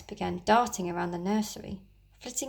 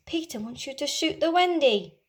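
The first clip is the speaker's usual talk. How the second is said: shrill fairy; 5 semitones higher than usual. Acted. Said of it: "Tinker Bell's shrill voice".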